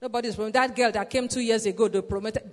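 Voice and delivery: low, sulky complaining coworker; mild mock grumble about promotion; grumbling. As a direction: mimic a grumbling employee, lightly. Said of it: "you'll be grumbling like other people".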